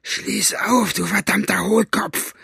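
high, strained furious order; angry snapping. A narrator's reading. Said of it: "fuhr Basta ihn durch die Gitterstäbe an".

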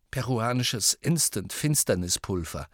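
dry, resentful naming; bitter and subdued. Acted. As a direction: spell it out sourly. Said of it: "sagte Ron bitter".

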